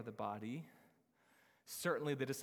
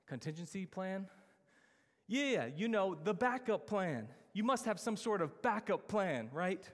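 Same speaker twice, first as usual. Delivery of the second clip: incredulous question; 5 semitones higher, 3 dB louder than usual. Retold or imitated. Film character incredulous at director.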